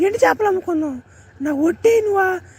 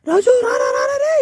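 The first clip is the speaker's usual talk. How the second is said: calling out; 4 semitones higher than usual. Acted. Wife calls husband from afar.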